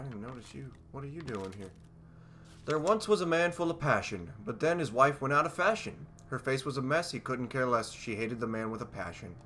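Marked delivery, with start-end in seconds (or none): 2.7-9.3 limerick recital. Acted. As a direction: recite it in a bouncy rhymed rhythm. Reads out a limerick.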